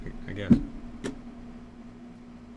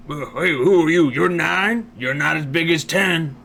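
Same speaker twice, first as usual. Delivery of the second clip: louder, fast, teasing boast; mock taunting; 2 semitones higher, 5 dB louder than usual. Ten card taunting the nine card, loud and fast mock boast.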